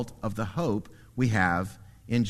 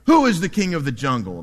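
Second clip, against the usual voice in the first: lion roar; 2 semitones higher, 6 dB louder, faster than usual. Acted. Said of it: "he goes up to the elephant".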